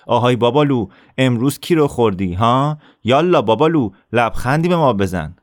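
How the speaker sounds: sneering bully taunt; bully's taunt. Acted. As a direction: jeer like a teenage bully. Bully Assef taunting Ali.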